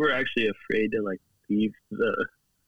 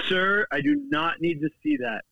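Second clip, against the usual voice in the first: shocked worker lady; 9 semitones higher than usual. Retold or imitated. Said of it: "the worker lady was like".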